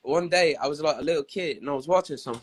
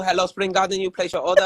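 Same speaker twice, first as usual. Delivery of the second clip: put-on Chinese accent. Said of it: "like the Chinese people".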